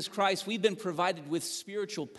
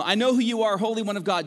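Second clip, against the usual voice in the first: raised, loud demon's challenge; demon crying out; 5 semitones higher, 6 dB louder, faster than usual. Acted. Demon in the man cries out to Jesus, loud and raised. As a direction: shout recognition at Jesus. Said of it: "keep reading".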